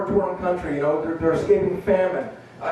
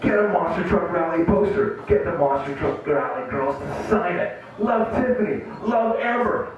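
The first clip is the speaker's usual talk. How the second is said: monster truck ad. Pretend. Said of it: "doing this commercial".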